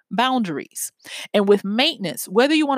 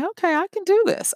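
mock excited self-pep; 10 semitones higher, faster than usual. Runner pumping self up.

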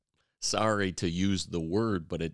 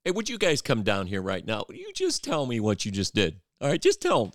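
calling out, higher and louder; yelling across the room; 6 semitones higher, 4 dB louder than usual. Acted. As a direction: summon them down from the pulpit. Acting out a preacher calling sinners up.

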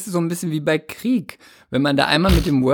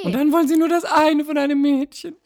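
outraged maiden; 11 semitones higher than usual. Pretend.

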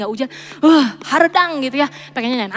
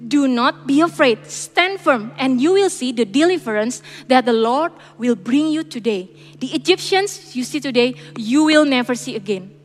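scripture reading; slower than usual. Acted. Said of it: "Moses answered the people".

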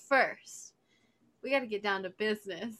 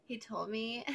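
whispering; 6 dB quieter than usual. Real, not acted. Gossip whisper.

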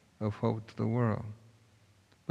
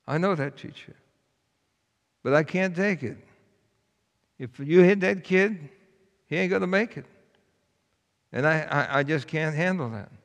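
put-on higher, louder child's voice, near tears; pleading boy; 5 semitones higher, 3 dB louder than usual. A narrator's reading. Boy insists on taking the beating, high pleading child voice. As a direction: plead with all his heart.

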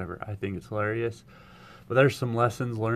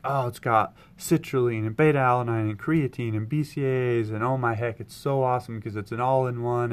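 eager rush of ingredients, a bit louder; gushing sales pitch; 2 semitones higher, 3 dB louder than usual. Retold or imitated. Pitching the pre-workout to an old teammate, gushing. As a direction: pour it all out like an overexcited fan. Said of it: "I just start going in like".

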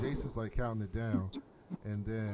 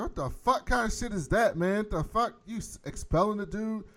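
raised, high, heated retort; acted angry challenge; 9 semitones higher, 6 dB louder than usual. Recapper voicing Jefferson confronting the principal, indignant. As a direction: challenge him loudly in indignant disbelief.

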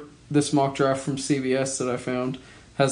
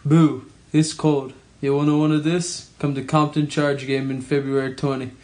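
imitating Mozgov's Russian accent. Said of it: "The commercial for the Lake Erie Monsters".

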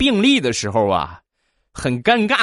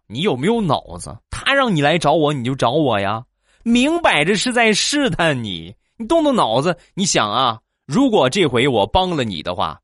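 scolding friend; 3 semitones higher than usual. Retold or imitated. Female friend scolding in story.

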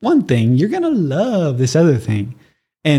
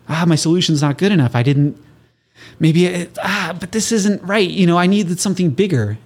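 worried creator; 4 semitones higher than usual. Retold or imitated. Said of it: "a lot of people will think".

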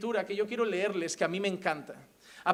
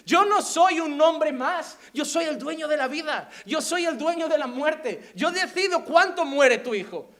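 declaring Jesus; 5 semitones higher, 4 dB louder than usual. Acted. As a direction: proclaim lordship over life and death. Jesus voiced, declaring power.

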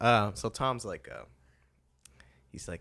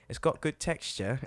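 a mock British baking-judge accent; 5 semitones higher than usual. Host quoting the baking show to his British friend, British accent. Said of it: "I love doing British accents to him".

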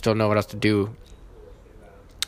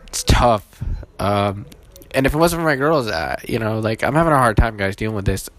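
holding back tears; 4 dB louder than usual. Real, not acted. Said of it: "I'm holding back tears".

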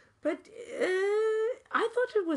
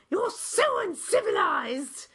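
mock scolding outburst, higher and louder; scolding shout; 5 semitones higher, 3 dB louder than usual. The Rotarian woman scolding her table in a mock shout. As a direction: hurl it like an outraged British lady. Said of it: "And she said".

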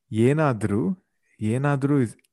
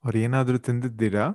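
Kannada accent; faster than usual. Shown as a demonstration. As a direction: clear native Kannada. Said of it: "let's go through the entire episode".

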